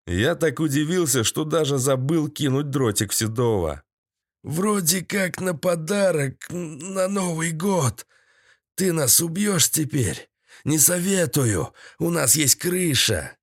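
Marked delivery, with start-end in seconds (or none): 4.4-13.4 high-voiced, uneasy answer; higher voice of a cornered trader; captive's character voice. A narrator's reading. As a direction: answer warily in a raised villain's voice.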